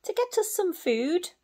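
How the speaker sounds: light little owl voice; lightly voiced owlet. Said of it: "said Percy".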